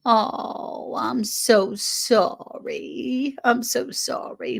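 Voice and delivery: slow, drawn-out sympathetic "so sorry"; heartfelt sympathy. Real, not acted. Host consoles viewer over sick pet, heartfelt sympathy. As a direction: console gently, stretching the words.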